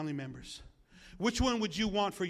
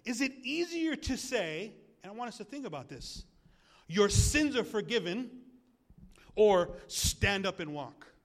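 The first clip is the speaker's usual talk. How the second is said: slow, louder, each option spelled out; deliberate, weighty delivery; slow weighed question; 2 semitones higher, 5 dB louder than usual. Retold or imitated. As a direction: set the two choices side by side. Jesus posing the question.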